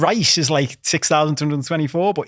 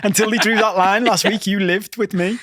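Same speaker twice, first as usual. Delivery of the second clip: higher, mock-exasperated pleading; incredulous protest; 5 semitones higher than usual. Housemate disowned after the line was drawn, incredulous protest. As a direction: protest it with a laugh creeping in.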